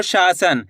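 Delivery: शासन with a held long शा; शासन said as "shaa-san", falling; drawn-out first syllable. Shown as a demonstration. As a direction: stretch the शा in शासन. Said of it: "शा का उच्चारण खींच को रहा है".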